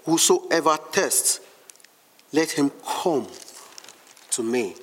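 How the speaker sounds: "Whosoever thirsts" drawn out slowly, pauses before "let him come" and "to me"; slow, weighted "Whosoever thirsts", falling away on "to me"; emphatic quotation. Shown as a demonstration. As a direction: stretch "thirsts", then set "let him come" and "to me" apart. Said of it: "I want to emphasize the word".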